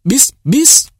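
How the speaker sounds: high-pitched crowd call for an encore; kêu ầm. A narrator's reading. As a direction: call out sharply from the audience, pitch jumping up. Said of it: "người ta kêu ầm". (khán giả hô lớn, giọng vút cao)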